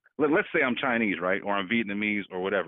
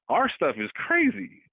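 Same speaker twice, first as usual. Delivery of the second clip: rising outrage at the violence; incredulous emphasis; 10 semitones higher than usual. Real, not acted. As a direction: voice jumps high in disbelief. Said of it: "emphatic disbelief".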